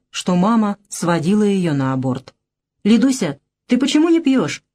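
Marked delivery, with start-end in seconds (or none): 2.8-4.6 mild, high-pitched shout; calling out. A narrator's reading. Drunk host urges a guest to drink, calling out. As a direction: call across the table without full force. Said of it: "через стол крикнул Писа".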